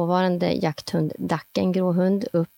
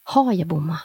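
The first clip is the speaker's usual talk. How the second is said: anxious whisper. Retold or imitated. Hunter whispering after the silence of her shot. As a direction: whisper the doubt to yourself. Fears she missed the shot.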